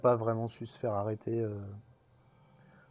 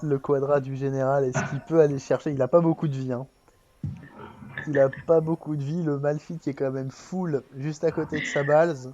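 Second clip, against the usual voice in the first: louder, rising live play-by-play; excited caster; 3 semitones higher, 5 dB louder than usual. Real, not acted. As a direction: call the fight like a caster. Caster calling a late fight.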